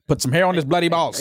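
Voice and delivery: put-on Irish accent. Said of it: "Nobody heard Maul's Irish accent".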